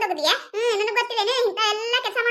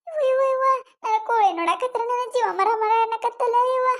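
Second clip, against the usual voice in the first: mock wailing. Wailing over her dead hen.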